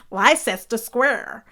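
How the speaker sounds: slow lie-sester square; repeating the mistake; Leicester misread. Retold or imitated. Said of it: "And he meant Leicester".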